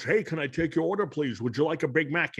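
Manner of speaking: slurred Scottish star taking an order; Scottish impression with shushed S's; Sean Connery. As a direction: play a Scottish fast-food cashier. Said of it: "Here's Sean Connery working at McDonald's".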